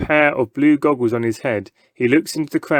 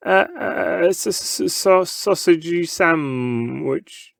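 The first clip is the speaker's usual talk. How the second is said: higher, slow, halting stammer; stuttering boy; 6 semitones higher, much slower than usual. A narrator's reading. Scared boy stammering his answer to the showman. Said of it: "stutters the boy".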